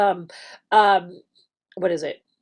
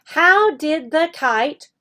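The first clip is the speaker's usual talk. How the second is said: slow student repeat; 4 semitones higher, slower than usual. Retold or imitated. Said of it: "he repeated the sentence".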